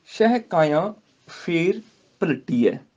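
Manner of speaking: slow measured Gurbani recitation. Shown as a demonstration. Teacher recites the verse to students, slow. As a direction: chant each word with pauses.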